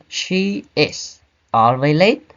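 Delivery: slow careful model of the correct order; correct sentence. Shown as a demonstration. Teacher modelling the correct sentence for students, slow and careful. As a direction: say it slowly as the right example. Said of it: "We say".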